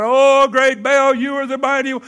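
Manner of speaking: hammed-up high chanting holler; mock screaming prophecy. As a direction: imitate frenzied prophets crying to their god. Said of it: "they're screaming, they're prophesying".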